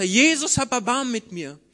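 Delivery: loud, high desperate cry. Acted. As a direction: shout over the crowd's scolding. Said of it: "Er ruft lauter". (noch lauter schreiend)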